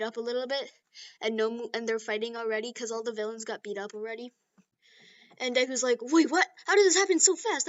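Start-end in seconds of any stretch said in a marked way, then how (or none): 6.0-7.7 high, startled questioning; bewildered surprise. Acted. Deku returning to the fight, surprised. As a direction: ask in disbelief.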